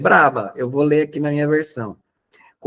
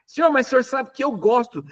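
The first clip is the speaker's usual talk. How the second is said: pleading Peter; 9 semitones higher than usual. Retold or imitated. Voicing Peter's protest.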